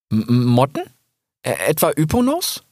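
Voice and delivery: fear of the Yponos moths; frightened stammer. Acted. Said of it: "fragte Rix". (ängstliches Stottern)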